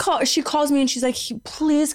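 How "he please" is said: higher, put-on tearful plea; fake sobbing. Roommate fakes a breakup call, mock sobbing. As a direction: play up the fake crying to sell it. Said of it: "she pretends sobbing".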